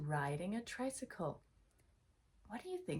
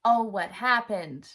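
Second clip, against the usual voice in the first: surprised; 2 semitones higher, 11 dB louder than usual. Shown as a demonstration. Mock shock at picture.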